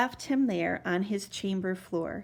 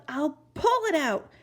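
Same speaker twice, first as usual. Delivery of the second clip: determined; 6 semitones higher than usual. Acted. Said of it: "he yelled".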